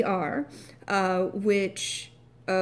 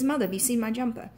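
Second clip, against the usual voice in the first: higher, quick RP English quote; RP British accent; 4 semitones higher, 4 dB louder, faster than usual. Retold or imitated. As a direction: imitate Ginny calling in RP English. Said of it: "even in R P".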